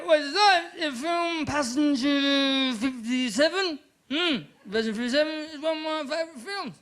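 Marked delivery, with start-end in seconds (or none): 0.1-3.8 high, excited mock announcer; hammed-up trailer announcer; mock movie-trailer voice. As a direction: pitch it like a cheesy film trailer. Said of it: "I just say".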